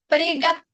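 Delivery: приготовить with a long, stressed TO; stress on second O. Shown as a demonstration. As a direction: hit the second O in приготовить hard. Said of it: "sigue estando en la segunda O".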